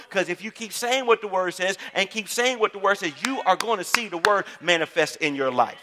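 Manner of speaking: driving, insistent sermon delivery; emphatic preaching. Real, not acted. Pastor urging the congregation to keep declaring scripture, emphatic preaching.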